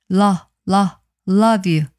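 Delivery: "love you" built up from a repeated "lo"; "love you" joined as "luv-yu"; linked pronunciation. Shown as a demonstration. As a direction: drill "love you", linking the v into "you". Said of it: "항상 우리 하는 발음이죠".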